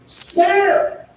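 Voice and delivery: angry bus rider calls out; yelling passenger. Retold or imitated. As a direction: call out to stop him.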